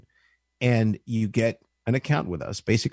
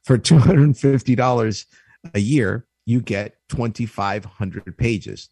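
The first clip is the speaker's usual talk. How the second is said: louder, hammed-up TV sales pitch; infomercial voice; 4 dB louder than usual. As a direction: pitch it like a late-night infomercial. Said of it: "boy, I sound like an infomercial".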